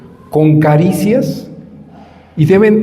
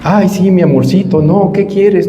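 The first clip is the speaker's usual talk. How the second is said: higher, sugary mock coddling of a spoiled child; lightly hammed-up parent cooing over a tantrum; preacher mocking a parent who gives in to every whim; mock doting parent; 4 semitones higher than usual.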